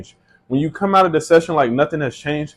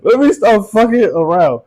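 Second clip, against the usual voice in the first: laughing; 6 semitones higher, 4 dB louder than usual. Real, not acted. Still laughing, repeated line.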